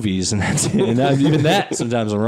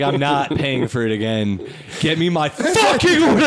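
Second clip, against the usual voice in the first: put-on spoiled kid yelling at staff; bratty angry demand. Kid demanding free order.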